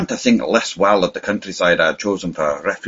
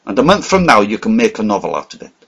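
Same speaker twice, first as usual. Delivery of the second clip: excited; 4 dB louder than usual. Acted. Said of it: "I cried".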